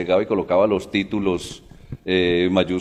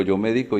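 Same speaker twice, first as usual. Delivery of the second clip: "médico" said as me-DI-co; stress on middle syllable. Shown as a demonstration. Teacher contrasting three words, middle-syllable stress on "médico". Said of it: "no es lo mismo decir".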